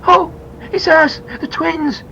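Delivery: put-on high, loud boy's call; shouting. A narrator's reading. Boy answering the policeman from the window, shouted. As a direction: call out urgently, stretched out. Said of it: "shouted Peter".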